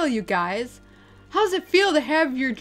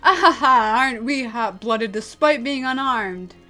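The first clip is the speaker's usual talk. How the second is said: loud laugh easing into a taunt; mocking villain; 6 dB louder than usual. Villain taunting an unarmed opponent, mocking. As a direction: laugh at them, then needle them.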